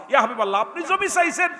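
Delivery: impassioned high shout building to a roar; full-force preaching. Acted. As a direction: build the devotee's declaration up to a loud crowd call. (আবেগভরা চড়া গলায় ওয়াজ)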